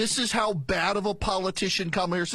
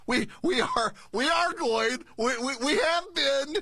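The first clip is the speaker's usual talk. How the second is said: higher mock protest, ARE and HAVE leaned on; mocking inflection; 5 semitones higher than usual. Host aping her border answer, mocking inflection. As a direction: stutter on "we", then stress "are" and "have" insistently. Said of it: "That inflection".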